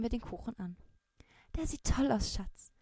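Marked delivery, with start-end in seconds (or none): 1.6-2.7 loving. Acted. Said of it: "lächelte meine Mutter liebevoll an".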